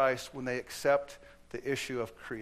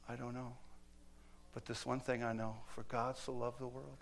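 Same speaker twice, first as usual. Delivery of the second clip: quiet recital; 7 dB quieter than usual. Retold or imitated. Little girl answers the atheist.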